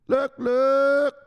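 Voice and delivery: high, loud eager call; excited shout. Pretend. Streamer spotting a follower, excited high shout. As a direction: point him out, thrilled.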